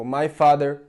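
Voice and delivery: "my father" with a full clear "my"; textbook "my". Shown as a demonstration. Brazilian learner demonstrating the taught form, clear "my". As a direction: say "my" as in the schoolbook. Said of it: "we have been taught to say".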